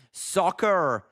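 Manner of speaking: "Soccer" in a put-on American accent, final r sounded; American accent attempt. Shown as a demonstration. Streamer testing one word for chat, attempted American accent. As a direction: say "Soccer" like a Brit trying American.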